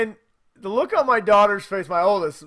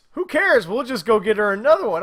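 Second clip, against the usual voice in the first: daughter's careless reply; 4 semitones higher, 6 dB louder than usual. Retold or imitated. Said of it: "She goes".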